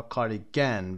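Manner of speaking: کاردیگن with a full stressed "GAN" ending; "cardi-GAN" for کاردیگن, weight on the last syllable; wrongly stressed schwa. Shown as a demonstration. Teacher showing a form not used, stressed final syllable. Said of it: "به این صورت نمیگیم".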